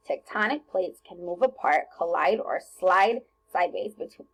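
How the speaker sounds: rushed, no pauses. Shown as a demonstration. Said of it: "I read that too fast 'cause I didn't have any commas".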